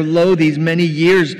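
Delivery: loud, indignant complaint; acted resentful son airing his grievance; angry elder son. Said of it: "He's angry".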